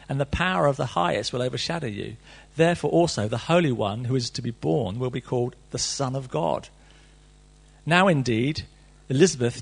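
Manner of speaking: measured, formal Bible reading; solemn reading of Luke; scripture reading. Acted. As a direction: read the passage to the congregation with weight. Reads the Gospel passage aloud.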